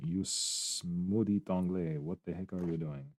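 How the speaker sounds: lightly imitated Quebecois French accent, slow; teasing impression of a Quebec viewer with a light accent; accent québécois moqueur et léger; mock Quebecois accent. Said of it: "They will be like".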